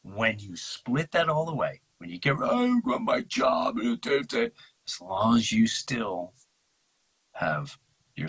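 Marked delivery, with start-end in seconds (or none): 2.4-4.5 high, slow mocking singsong voice; mimicking in a silly high pitch; mock job chatter. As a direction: parrot it in a much higher put-on voice. Mocking the excited job-holder.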